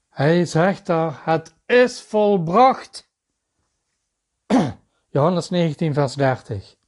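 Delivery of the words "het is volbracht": proclaimed quote. Acted. Repeating Jesus' words, raised.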